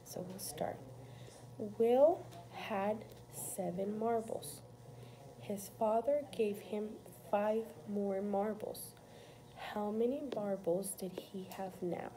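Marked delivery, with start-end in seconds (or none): 1.8-12.1 slow, measured read-aloud with pauses; careful, spaced-out word-problem reading. Real, not acted. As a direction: read it out slowly for a pupil to follow. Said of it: "I'm gonna read this problem to you".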